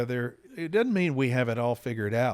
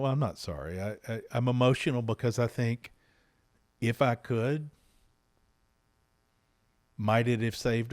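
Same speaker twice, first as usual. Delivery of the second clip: choked up with emotion. Real, not acted. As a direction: speak through real emotion about his lost son. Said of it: "I'm sorry to get emotional".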